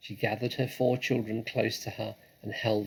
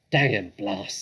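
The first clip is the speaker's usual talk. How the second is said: gruff curse; 5 dB louder than usual. Acted. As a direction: spit out the curse. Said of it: "said Boggis".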